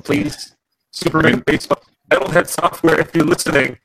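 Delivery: robot voice pleading into the mic. Real, not acted. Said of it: "with your robot voice right now".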